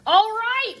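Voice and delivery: high, loud mayor exclaiming; mayor giving in to Sophia; cried out. Acted. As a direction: burst out with it. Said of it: "cried the mayor".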